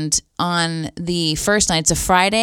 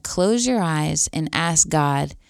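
gentle and loving. Retold or imitated. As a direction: imitate a lovingly spoken invitation. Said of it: "very gently and lovingly said".

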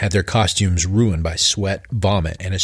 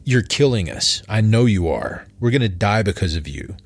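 anxious accusation. Acted. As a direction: blurt it out in creeping panic. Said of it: "a voice of anxiety".

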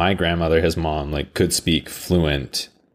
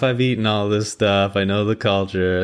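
lightly hammed-up, higher-pitched bragging; pitched up, showing off in jest; mock boasting; 6 semitones higher than usual. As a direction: play up being in the know. Acts out own boastful reply.

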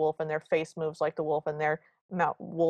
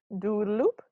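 effeminate yelling; 4 semitones higher, 4 dB louder than usual. Retold or imitated.

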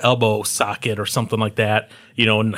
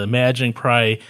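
ordinary talk

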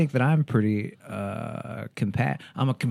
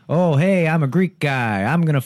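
a light Greek guy impression; lightly voiced Greek guy; Greek guy accent; 3 semitones higher than usual. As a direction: toss off a quick Greek accent. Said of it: "here's my Greek guy impression".

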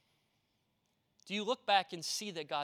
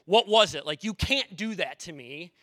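loud, exasperated demand; nurse's mock outrage; 8 dB louder than usual. Nurse confronting pastor, loud mock outrage. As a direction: scold him like a worried nurse. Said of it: "a nurse came up to me and goes".

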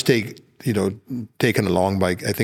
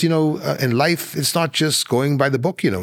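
mock lecturing, pitched higher; retold lecture; 5 semitones higher than usual. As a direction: imitate him lecturing the man. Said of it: "he proceeded to lecture him".

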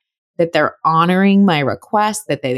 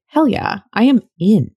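eager; 4 semitones higher than usual. Retold or imitated. Imagined eager reply.

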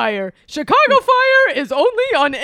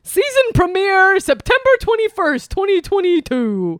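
boisterous birthday clown; 4 semitones lower, faster than usual. Acted. Bunny voice continues.

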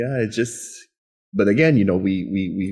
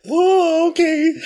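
squeaky high "Oh, okay"; high surprised okay; 5 dB louder, much slower than usual. Retold or imitated. Son answering mom, squeaky surprised okay. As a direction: pitch it way up in disbelief. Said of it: "I'm like".

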